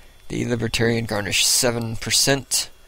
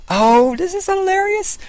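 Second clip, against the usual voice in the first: delighted; 6 dB louder than usual. Real, not acted. Delighted at funny news.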